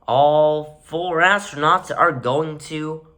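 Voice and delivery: slow build to a shouted "die"; shouting. Real, not acted. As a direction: yell the last word. Rant climax.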